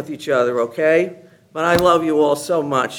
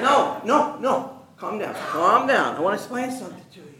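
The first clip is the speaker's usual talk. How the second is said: calming down; 4 semitones higher, 3 dB quieter than usual. Retold or imitated. Teacher calming the shocked principal.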